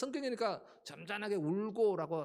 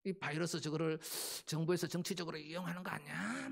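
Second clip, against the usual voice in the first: whispered suspicion. Retold or imitated. Voicing people's suspicion.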